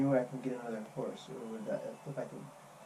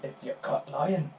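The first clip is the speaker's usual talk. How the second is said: put-on slow, menacing Scottish accent; slower than usual. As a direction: threaten slowly in Scottish. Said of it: "don't know where that accent came from".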